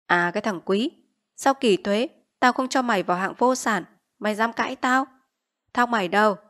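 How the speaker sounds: a hint of sneering interrogation; menacing village chief. Village chief grilling Quý about his rice, menacing. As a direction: lean in and demand.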